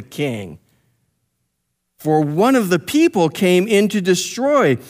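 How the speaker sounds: slow, drawn-out mock proclamation; retold yelling out. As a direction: call out the accusation slowly, stretching the words. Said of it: "This is what he's yelling out".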